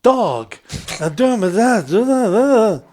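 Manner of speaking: loud, high, garbled mock street talk; imitated big guy. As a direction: mimic his booming, unintelligible rambling. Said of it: "a big black guy".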